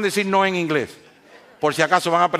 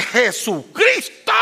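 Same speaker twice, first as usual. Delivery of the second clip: slow, loud, drawn-out yell of pain; pained shout; 7 semitones higher, 5 dB louder, much slower than usual. Retold or imitated. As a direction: stretch the name out like you just hurt your finger. Mocks someone who jammed a finger.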